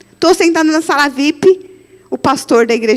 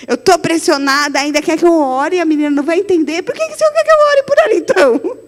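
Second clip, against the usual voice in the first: mock exasperated protest. Arguing with God, exasperated.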